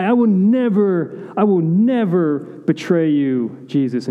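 hammed-up brash Peter swearing loyalty; brash vow. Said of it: "he's this brash guy".

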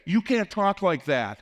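drawn-out, high-pitched mock objection; retold indignant protest. Boss objects in retold quarrel.

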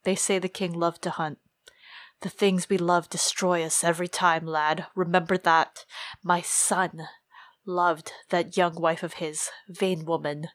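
lightly voiced old man musing bitterly; grave old commander. Reads the Lord Commander's speech.

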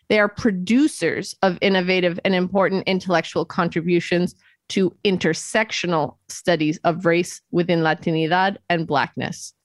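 usual speaking voice

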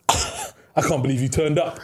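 slow, measured taunt at an opponent; retold taunt. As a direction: draw it out slowly, imitating a cocky rival.

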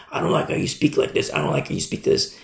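fast, whispered complaining parent; mock parent. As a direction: rattle it off like a petty parent.

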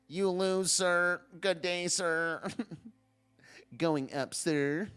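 slow, droopy cartoon dog voice; lightly voiced sleepy Droopy drawl. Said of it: "Who is that guy, Droopy?".

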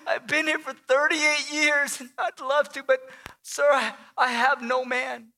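halting plea with long pauses; acted desperation, starting hushed; desperate, quivering. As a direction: plead as if at the end of hope. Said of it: "a tone of desperation and maybe a, a quiver in his voice".

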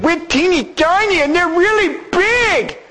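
small, high, timid voice; high tiny voice. Acted. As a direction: sound little and timid. Spies' report of feeling small.

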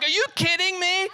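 retold anger. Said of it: "I was mad".

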